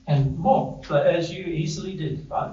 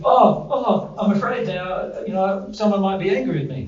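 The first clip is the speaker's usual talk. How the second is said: mock fearful; 6 semitones higher than usual. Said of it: "the feeling is".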